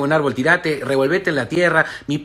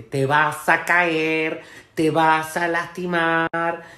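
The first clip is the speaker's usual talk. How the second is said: mock warning shout; 3 semitones lower, much slower than usual. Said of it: "le pega el grito".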